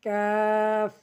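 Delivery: long "কাফ" from just ahead of the tongue root; tongue back to palate, hold "কাফ" steady; forward of tongue root. Shown as a demonstration. Teacher showing learners the letter, "কাফ" drawn out evenly. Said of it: "জিহ্বার গোড়া থেকে একটু আগে".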